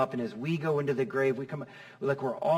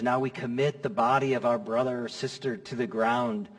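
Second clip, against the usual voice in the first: hushed graveside prayer; 3 semitones lower than usual. Retold or imitated. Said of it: "I'll read these words".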